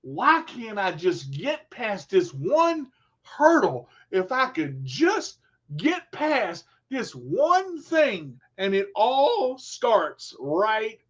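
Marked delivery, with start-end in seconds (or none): 0.0-8.4 mock frustrated sigh. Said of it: "several of you saying".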